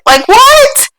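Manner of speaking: high, laughing disbelief; can't believe what she's reading; laughing "what?" at the screen; incredulous. Real, not acted. Exasperated at Reddit poster.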